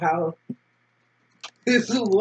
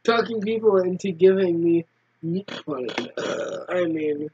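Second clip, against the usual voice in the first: lightly voiced laid-back boy; a hint of a cagey street kid; character voice; 2 semitones lower than usual.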